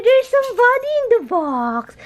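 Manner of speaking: high unvoiced whisper to the dog. Real, not acted. Whispering to the dog in the box.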